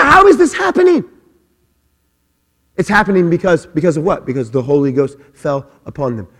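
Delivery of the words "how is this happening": much higher, fast astonished question; amazed crowd. Retold or imitated. Crowd at Pentecost marvelling at the tongues, astonished. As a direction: blurt it out in amazement. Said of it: "They're like".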